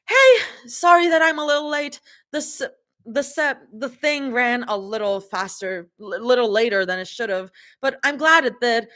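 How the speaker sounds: high, stuttered, tripping over words; stumbling read. Acted. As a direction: fumble through the line. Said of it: "happily calls out, a little breathless".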